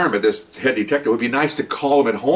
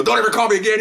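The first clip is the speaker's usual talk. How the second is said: retold yell; 10 semitones higher, faster than usual. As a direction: shout it as the enraged colleague on the line. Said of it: "he's yelling".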